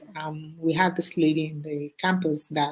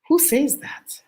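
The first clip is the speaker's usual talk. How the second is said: higher, louder outraged question; indignant surprise; 9 semitones higher, 4 dB louder, slower than usual. Real, not acted. Speaker outraged at a viewer's comment, higher and louder. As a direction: ask it in disbelief.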